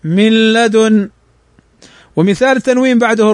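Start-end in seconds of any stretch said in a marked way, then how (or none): 0.0-1.1 "من لدن" slowly with the noon merged into the lam as "مِلّدن"; slow correct "من لدن"; merged recitation. Shown as a demonstration. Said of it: "ننطقها هكذا".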